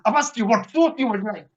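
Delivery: imitating an impatient drive-through worker; impatient repeat. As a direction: repeat the question insistently, mildly testy. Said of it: "she's going".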